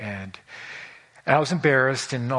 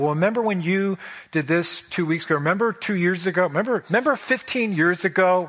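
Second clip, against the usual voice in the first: put-on rising, louder, needling each old fault; accusing spouse, voice climbing higher and louder; mock accusing spouse; 5 semitones higher, 4 dB louder than usual. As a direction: pile up the grievances like a nagging spouse.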